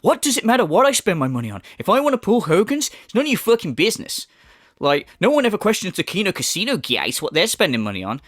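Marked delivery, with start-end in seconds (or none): 0.0-4.3 fast, higher defiant mimicry; mock quote. Commentator parodying the streamer's defence, fast defiant mimicry. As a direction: snap it back like him, quick.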